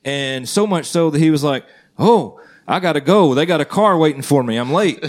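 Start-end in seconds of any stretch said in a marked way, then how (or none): 2.0-5.0 retold urgent exclamation. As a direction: act out a guest who must leave. Retelling guest's hasty goodbye.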